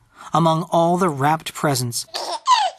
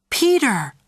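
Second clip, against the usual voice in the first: higher-pitched exclaimed name; mother's reproach; 8 semitones higher than usual. A narrator's reading. Mommy to Peter over the limp doll, reproachful. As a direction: call his name in mild reproach.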